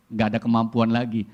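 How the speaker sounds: usual speaking voice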